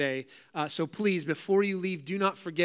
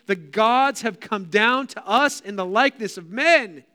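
loud, higher crowd proclamation; big swelling cry read from scripture; lifted-up voice; 6 semitones higher, 8 dB louder, slower than usual. A narrator's reading. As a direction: proclaim it as an amazed crowd would. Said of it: "they lifted up their voices".

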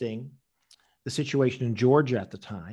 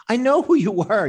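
raised, higher voice calling them out; mock confrontation; 9 semitones higher, 7 dB louder than usual. Confronting the men who tailed him, raised voice. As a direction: call out the minders sharply.

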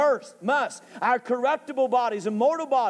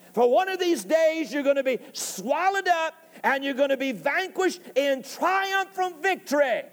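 raised, emphatic preacher's taunt; taunting Death. Acted. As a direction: call Death out, warning his day is coming. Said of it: "he begins to taunt him and remind him".

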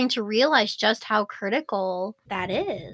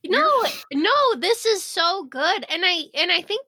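crying, worn out; 7 semitones higher than usual. Real, not acted. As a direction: speak through real tears. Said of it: "I can't stop crying".

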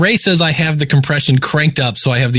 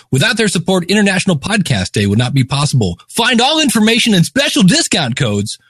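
radio announcer read. Acted. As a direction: sponsor read like a DJ. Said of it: "even in a crappy D J voice".

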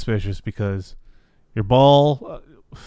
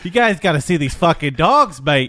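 mock Aussie driver; 4 semitones higher, 4 dB louder, faster than usual. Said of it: "he's just like".

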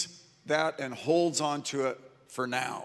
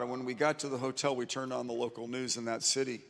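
ordinary talk, nothing marked

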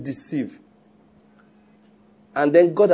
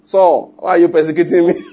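laughing quote; 4 dB louder than usual. Retold or imitated. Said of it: "Jesus is very funny".

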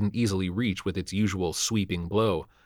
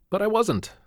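affable; 13 semitones higher than usual. A narrator's reading. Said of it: "he said affably".

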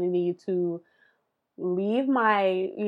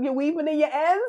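lightly voiced brother, a bit higher; brother asking; 7 semitones higher than usual. Brother asking about her knitting, lightly voiced. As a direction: ask it like a curious brother. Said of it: "he's like".

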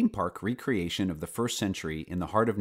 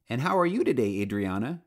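kind; 2 semitones higher than usual. Acted. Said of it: "she kindly asked".

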